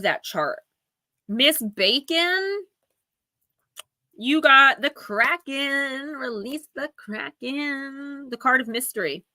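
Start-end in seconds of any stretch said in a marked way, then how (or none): 1.3-9.2 slow, high, drawn-out proclamation; dramatic announcer. Pretend. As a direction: unveil it like a movie trailer. Dramatic card reveal.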